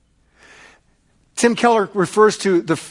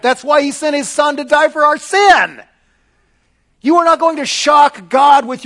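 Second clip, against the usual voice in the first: preaching shout; 8 semitones higher, 6 dB louder than usual. Real, not acted. Preacher's climax, shout heard.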